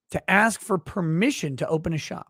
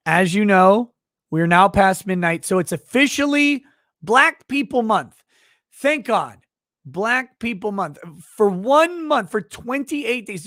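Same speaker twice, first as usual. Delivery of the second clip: sarcastic benevolent leader; 4 semitones higher, 4 dB louder than usual. Pretend. Mock leader grandly telling Black people they're welcome. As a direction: hand out the month like a royal favor.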